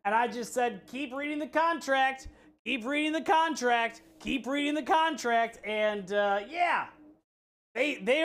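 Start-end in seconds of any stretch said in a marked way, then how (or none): 0.9-5.6 calm, smiling, unbothered repetition; smiling calm repeat. Retold or imitated. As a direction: patiently repeat it through a smile. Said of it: "I just smiled on the phone the whole time".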